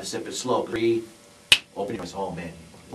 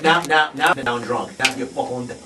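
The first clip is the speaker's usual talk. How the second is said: excited; 4 semitones higher, 7 dB louder, slower than usual. Pretend. Hypnotist hamming drunk scene.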